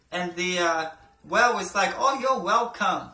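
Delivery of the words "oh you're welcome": lightly voiced whale, a little higher; joke whale voice. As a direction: play a polite whale with a lightly put-on voice.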